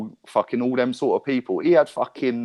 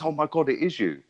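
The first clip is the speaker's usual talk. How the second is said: higher-pitched imitation of an amazed fan; mock starstruck recognition, pitched up; 5 semitones higher, 3 dB quieter than usual. Shop lad recognising him at the till, starstruck imitation.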